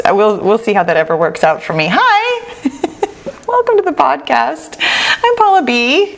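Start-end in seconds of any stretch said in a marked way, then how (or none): 1.9-6.1 high bubbly laughing greeting; exaggerated cartoon intonation. Real, not acted. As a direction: chirp hello like a cartoon host. Cheery show greeting.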